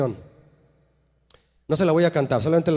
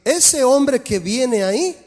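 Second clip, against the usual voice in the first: higher, slow, loud call across a distance; a slow proclamation, louder and higher; 7 semitones higher, 6 dB louder, much slower than usual. Acted. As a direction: announce him loudly and slowly for all to hear. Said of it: "la voz de Jesús en voz alta decir".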